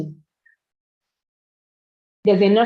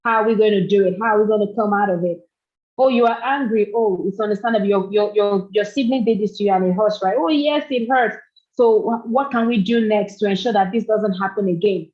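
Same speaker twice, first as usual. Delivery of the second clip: soothing parent. Shown as a demonstration. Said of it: "You pat them on the back".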